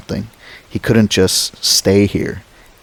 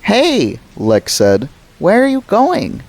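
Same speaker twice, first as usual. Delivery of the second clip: put-on frightened child calling; 12 semitones higher, slower than usual. Little girl calls after the fleeing driver, panicked.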